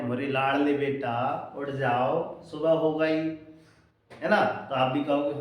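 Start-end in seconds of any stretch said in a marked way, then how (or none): 0.0-3.2 soft, slow, tender wake-up call; loving mother. Retold or imitated. Mother gently wakes her beloved son, tender and soft. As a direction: coax the child awake like a fond mother. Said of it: "बड़े प्यार से".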